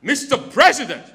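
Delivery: loud mock African accent. Comic opening the volunteer's African accent game. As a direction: announce him in a put-on African accent. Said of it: "in an African accent".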